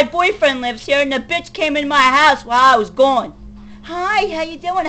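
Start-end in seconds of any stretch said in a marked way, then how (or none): 3.8-4.9 sugary fake-friendly greeting, a touch mocking; imitating a fake-nice hello. Mocking the rival's fake greeting, sugary. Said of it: "Pretending to be nice to me".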